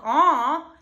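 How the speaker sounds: bright honking "aw" like a goose; goose honk vowel. Shown as a demonstration. Vocal coach shows the goose honk "aw" to students. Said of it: "go more into my goose honk".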